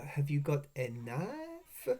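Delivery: very slow, stretched-out catchphrase; mock quoting the guard. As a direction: drag out each word of the in-joke. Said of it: "quoting it for fucking ages".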